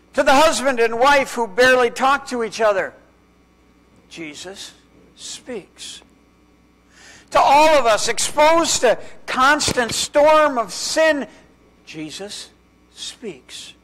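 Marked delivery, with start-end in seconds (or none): 4.1-6.0 a breathy whisper on the last word. Acted. Preacher lands the refrain for the haunted father, whispered. Dramatic refrain after Jesus. 11.9-13.7 a breathy whisper on the last word. Acted. Preacher lands the refrain for the haunted father, whispered. Dramatic refrain after Jesus.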